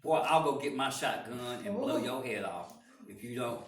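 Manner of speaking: owner's threat. Acted. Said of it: "he says".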